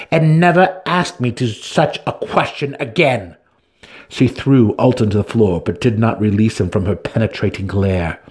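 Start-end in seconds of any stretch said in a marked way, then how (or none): 0.1-3.4 louder, higher menace; open threat. A narrator's reading. Santa Fe warns Alton, a menacing threat. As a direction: lean in with the threat. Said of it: "unmistakable weight of an open threat".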